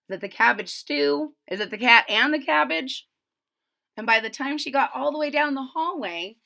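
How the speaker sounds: put-on lively read-aloud rhythm for kids; storybook narration. A narrator's reading. Reader telling young listeners about Ada, lively storybook reading. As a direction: tell the rhyme to the children. Reads picture book aloud.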